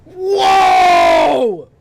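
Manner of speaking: high, loud amazed whoa; surprised shout. Real, not acted. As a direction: cry out in amazement. Reacts to transformation.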